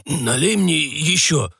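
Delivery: put-on slow, nervous old man; anxious old man; hasty request. A narrator's reading. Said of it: "поспешно попросил дед".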